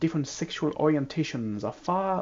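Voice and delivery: a hint of a French accent, earnest warning; lightly voiced French character. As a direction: speak as the French character, gently serious. NPC voice in scene.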